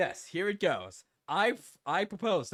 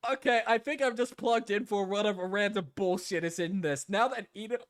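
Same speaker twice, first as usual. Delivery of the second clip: talking with hiccups; hiccuping between words; 3 dB louder than usual. Real, not acted. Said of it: "I have the hiccups now".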